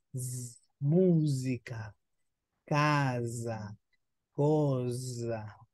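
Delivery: musica, casa, cosa with a buzzing voiced Z; Italian: S sonora vibrante in musica, casa, cosa; voiced S demo. Shown as a demonstration. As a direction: buzz the S in casa and cosa like a soft z. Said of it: "una piccola vibrazione".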